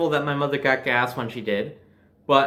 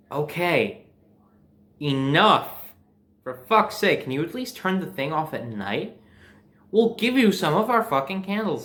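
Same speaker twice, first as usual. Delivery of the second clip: fed-up rant. Retold or imitated. Ranting at noisy neighbors' generator.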